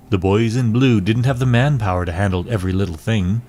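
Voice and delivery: lightly voiced noir detective narration; measured storytelling in a hint of deep voice; deep-voiced narrator. Detective recounts a client walking into the office, deep narrator voice. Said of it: "now she's got a permanently deep voice".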